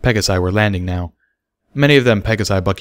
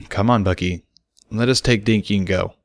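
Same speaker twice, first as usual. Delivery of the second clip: calm, soothing. Acted. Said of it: "in a calm, soothing voice".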